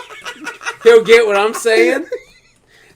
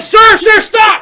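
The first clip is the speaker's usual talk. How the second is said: loud, very high cry; mock panicked plea; 9 dB louder, slower than usual. Fan being beaten by the star, mock panicked shout. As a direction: beg him off, hammed-up and high.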